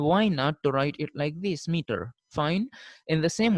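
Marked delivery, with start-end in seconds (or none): 1.7-2.1 "meter" said MEE-ter, ending in -er; correct pronunciation. Shown as a demonstration. Teacher giving students the real pronunciation, MEE-ter. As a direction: say "meter" with the R after the vowel. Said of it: "since the pronunciation is meter".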